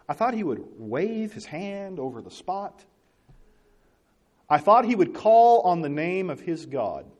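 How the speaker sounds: slow, grand quoted demand; mock pompous Naaman. Preacher rereads Naaman's complaint, slow and lofty. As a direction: draw it out like a proud man. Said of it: "He says".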